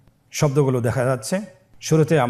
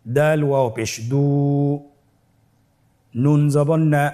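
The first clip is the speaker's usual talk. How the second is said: spelling aloud. Shown as a demonstration. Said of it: "আবার বানান করে শিখব".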